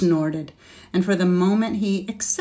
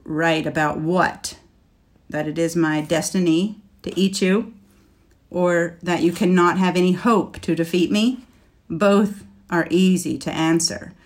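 defiant scornful laugh. Acted. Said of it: "the dragon laughed scornfully".

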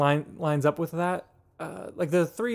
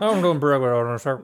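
mock southern accent, laughing; 4 dB louder than usual. Co-host jokes back to the clerk, mock southern accent while laughing. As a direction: tease a friend by answering in the clerk's southern accent. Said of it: "answer him with the same accent".

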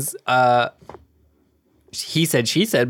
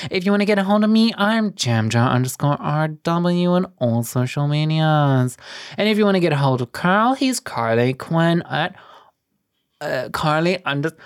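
news anchor voice. Pretend. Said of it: "news anchor voice".

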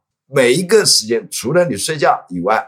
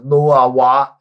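put-on girly Japanese speech; 3 semitones higher, 4 dB louder, slower than usual. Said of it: "是女孩子的那种东西".

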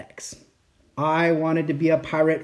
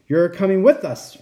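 pirate captain voice; 3 semitones higher, 4 dB louder than usual. Acted. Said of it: "Braidbeard told me".

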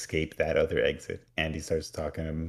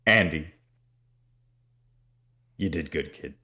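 demon voice. Retold or imitated. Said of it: "He says".

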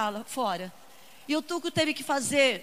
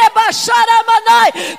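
speaking in tongues; 6 semitones higher, 13 dB louder, slower than usual. Acted. Speaking in tongues mid-sermon.

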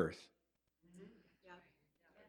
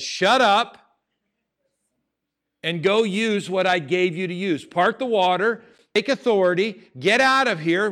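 stern rebuke; 3 semitones higher, 4 dB louder than usual. Retold or imitated. God voiced rebuking Moses.

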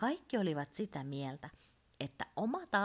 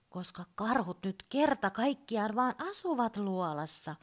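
shrill voice; 5 semitones higher than usual. Acted. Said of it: "sanoi Urpo kimeällä äänellä".

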